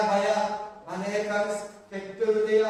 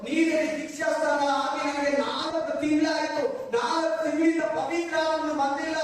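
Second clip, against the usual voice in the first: raised-voice pleading prayer, acted out; imitating an insistent, anguished prayer; re-enacted tearful plea; 3 semitones higher than usual. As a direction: cry out to God as if reliving desperation. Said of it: "ಬರೋ ಅಂತ ಅಳ್ತಾ ಇದ್ದೀನಿ".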